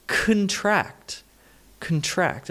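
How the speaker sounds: kun-TRACT, stress on the second syllable of "contract"; reduced first syllable. Shown as a demonstration. Teacher corrects the vowel, reduced "contract". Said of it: "not con".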